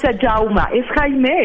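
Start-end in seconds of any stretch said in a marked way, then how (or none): 0.3-0.6 "Jaume" said the Catalan way, ZHOW-muh; Catalan pronunciation. Shown as a demonstration. Guest teaching hosts the name "Jaume", Catalan pronunciation. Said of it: "En catalán se pronuncia".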